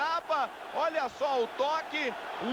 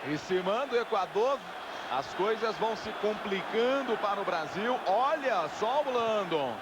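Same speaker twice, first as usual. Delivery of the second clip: animated play-by-play; 5 semitones higher than usual. Real, not acted. Ecuador attacks, crowd boos.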